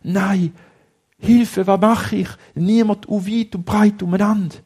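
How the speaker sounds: put-on boy alone and crying for help; despairing cry. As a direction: call out in despair. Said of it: "Er ist völlig verzweifelt".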